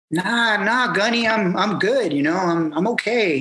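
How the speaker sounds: light acted "no thanks"; retold brush-off. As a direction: politely wave off the advice, voice lifted. Acts out brushing off the gunny.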